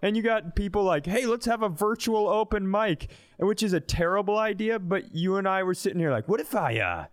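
usual speaking voice

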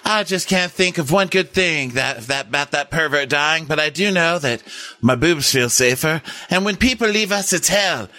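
mocking Gail's dead Harvey speech; imitating Gail's speech. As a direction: deliver it like a corny tearjerker. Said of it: "she's like".

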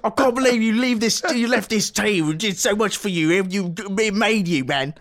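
high, loud mock complaint; mock whining. Fans mocking a player who left, high whiny voice. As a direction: whine like a betrayed team.

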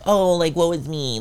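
lightly hammed-up self-pity; mock the poor-me act; mock woe. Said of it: "I wasn't about to be like".

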